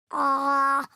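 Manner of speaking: open wide ah. Pretend. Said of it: "Open wide and say".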